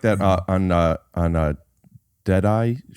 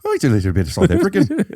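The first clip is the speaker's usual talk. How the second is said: put-on South African accent; 5 semitones higher than usual. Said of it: "That's like a little Irish".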